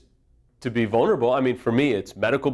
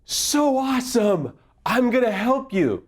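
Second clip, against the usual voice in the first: sarcastic sing-song, higher and slower; mock cheerful life voice; 11 semitones higher than usual. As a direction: play life as a fake helper, mockingly. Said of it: "life, energy, doesn't say".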